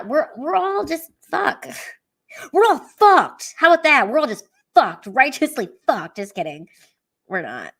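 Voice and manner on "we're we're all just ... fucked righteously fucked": high, loud hammed-up rant; mock outburst. Streamer to chat, a hammed-up loud rant. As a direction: belt it out for laughs.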